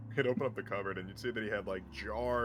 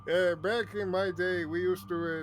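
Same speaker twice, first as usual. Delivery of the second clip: put-on higher, slow elderly Jewish accent; Jewish old man accent; 8 semitones higher, 7 dB louder, slower than usual. GM as old Boswell recalling his youth, Jewish accent. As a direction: reminisce like an old Jewish grandfather. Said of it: "I'm gonna stick with the Jewish one".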